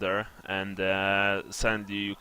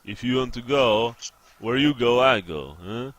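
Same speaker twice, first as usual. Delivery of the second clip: lightly voiced burly henchman, louder; a hint of a gruff loyal sidekick; 5 dB louder, slower than usual.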